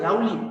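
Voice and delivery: "lovely" mispronounced as "lowly"; "lovely" with a W glide replacing V. Shown as a demonstration. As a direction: say "lovely" as "lau-ly", no V. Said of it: "you don't have to say".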